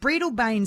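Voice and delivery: Breadalbane as BREE-dəl-bane; long EE and a full final BANE in Breadalbane; tourist's pronunciation. Shown as a demonstration. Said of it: "seems like absolutely something a tourist would say".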